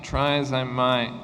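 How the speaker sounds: "Try" leaned on, rest slow and even; slow model chunk. Shown as a demonstration. Teacher slowly modelling "Try as I might" for students. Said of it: "teacher models chunk slowly".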